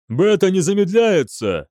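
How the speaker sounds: high, urgent call; alarmed report. A narrator's reading. Тревожный доклад офицера в бою. (встревоженно выкрикнуть доклад)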